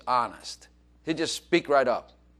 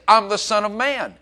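proclaiming; 7 semitones higher, 5 dB louder than usual. Real, not acted. Preacher proclaiming Jesus' identity.

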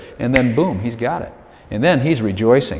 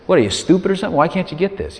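a touch higher, half-hearted scolding of himself; mock self-scolding; 5 semitones higher, faster than usual. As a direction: scold yourself lightly, exasperated. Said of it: "you say".

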